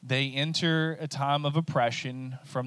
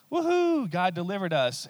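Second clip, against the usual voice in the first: high whoop of joy; celebrating; 6 semitones higher, 4 dB louder than usual. Pretend. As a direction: cheer like you just got rescued. Celebrating deliverance.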